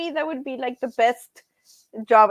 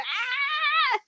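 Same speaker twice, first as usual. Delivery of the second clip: imitated goat scream; 5 dB quieter than usual. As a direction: mimic a distressed goat with one long high "aah". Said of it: "you know, it's like".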